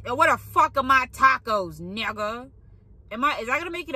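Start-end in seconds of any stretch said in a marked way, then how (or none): 0.1-2.5 mock rude customer. Imagined Taco Bell order, mock yell at the cashier. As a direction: ham up an irate customer. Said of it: "I'm like".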